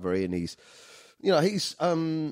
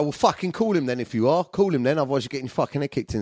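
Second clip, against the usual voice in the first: retold challenge; 5 semitones higher, 3 dB louder than usual. Retelling a standoff with aggressive lads.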